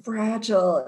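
put-on mildly coddling, as if to a child. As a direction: gently humour him, lightly done. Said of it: "say everything kind of coddlingly".

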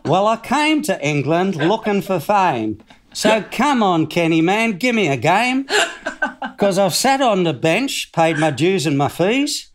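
lilting, overdone Australian rap verse; put-on Australian accent. Player performing his plea to Kenny in a put-on Australian accent. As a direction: recite it in broad, self-mocking Australian. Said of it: "I was trying to do an Australian accent".

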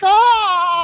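high hammed-up wail of shock; a cartoonish cry of despair; mock anguished cry. Al's reaction in retold scene.

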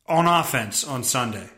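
ordinary talk, nothing marked

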